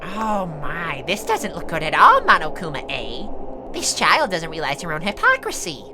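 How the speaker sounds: soft, hushed tutting; mock-dismayed aside. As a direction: confer quietly, as if behind someone's back. Villain confers aside with her dolls.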